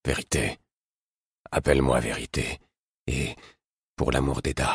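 low, tired king's voice; weary. A narrator's reading. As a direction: sound worn out, pleading softly. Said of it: "Il m'interrompit d'un ton las".

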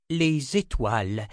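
slow, solemn oracle words; prophetic recitation. A narrator's reading. Djebra's last words before the leap, solemn prophecy. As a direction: intone it like a prophecy.

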